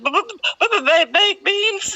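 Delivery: high, stammering sob through the words; blubbering. Retold or imitated. Crying to the lady over baked beans, stammering high. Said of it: "And I was blubbering".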